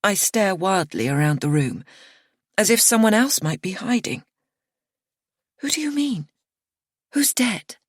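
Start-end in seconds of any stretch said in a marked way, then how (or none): 5.6-7.8 higher, urgent questions; frightened questions; alarmed. A narrator's reading. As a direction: ask wildly, panicked.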